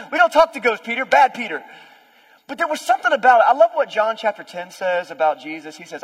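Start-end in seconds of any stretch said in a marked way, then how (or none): 0.1-1.6 louder, higher, chiding; hammed-up disciple telling Peter off; mock scolding. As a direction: scold a foolish friend, half laughing.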